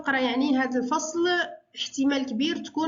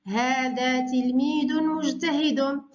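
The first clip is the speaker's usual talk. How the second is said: إملاء بطيء؛ هذا تلميذٌ مجتهدٌ بتنوين واضح وبطء؛ كلمة كلمة بنبرة الإملاء؛ معلمة تملي الجملة على التلاميذ ببطء; slower than usual. Shown as a demonstration. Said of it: "حول إلى المثنى".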